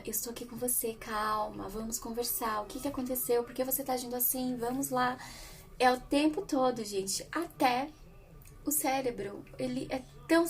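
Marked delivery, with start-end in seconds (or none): 0.0-5.2 put-on softly reassuring a child; a gentle parent calming a child in a tantrum; calm, soothing. Shown as a demonstration. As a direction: talk a child down gently, softer. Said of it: "E fala".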